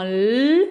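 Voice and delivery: "l" held alone as "lll"; sound picked apart. Shown as a demonstration. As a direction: hum the "l" by itself, drawn out. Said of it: "on peut décortiquer". (« l » isolé et tenu)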